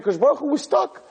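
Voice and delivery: high-pitched pretend panic; acted-out distressed appeal; urgent plea. Acts Moshe pleading when trapped.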